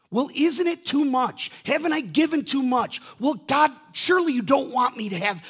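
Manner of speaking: high, loud whining excuses; pleading protest. Retold or imitated. Believer complaining to God about giving, high and whiny. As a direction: bargain like a reluctant giver.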